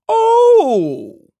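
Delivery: high, loud excited whoop; excited howl. A narrator's reading. Coach cheers the finish with an excited howl. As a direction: howl it out with delight. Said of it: "Coach howled excitedly".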